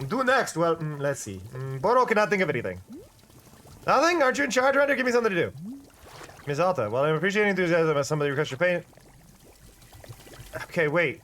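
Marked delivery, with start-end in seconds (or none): 0.1-2.8 lightly voiced chatty shopkeeper; fake accent shopkeeper. Shopkeeper Boro explaining the camera, mild fake accent. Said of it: "with the fake accent". 3.9-5.5 eager character. Acted. Player voicing eager Miss Alta. 6.5-8.8 lightly voiced chatty shopkeeper; fake accent shopkeeper. Shopkeeper Boro explaining the camera, mild fake accent. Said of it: "with the fake accent".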